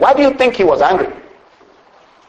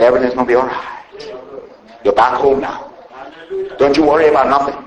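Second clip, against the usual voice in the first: a touch of comfort; 4 semitones lower than usual. Acted. Father reassuring his returning son, a hint of tender comfort. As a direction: ease him home, lightly voiced father.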